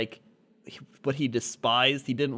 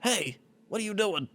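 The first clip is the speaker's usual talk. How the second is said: put-on girlfriend voice; 7 semitones higher, 4 dB quieter than usual. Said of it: "she's like".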